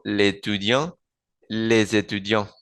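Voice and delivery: l'étudiant with no final T, les étudiants linked with Z; étudiants ending on the nasal vowel; masculine demo. Shown as a demonstration. Teacher contrasting masculine forms. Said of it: "Y en el masculino".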